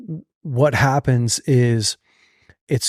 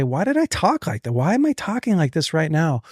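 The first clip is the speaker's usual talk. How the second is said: higher-pitched exasperated self-questioning; mock self-reproach; 4 semitones higher than usual. Podcaster voicing a man's regret at his words, exasperated. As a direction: act baffled and annoyed at yourself.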